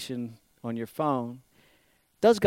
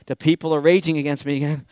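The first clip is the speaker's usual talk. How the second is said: quick, louder mock fretting; mock worry; 6 dB louder, faster than usual. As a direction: fret hurriedly while pacing. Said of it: "He's not anxious".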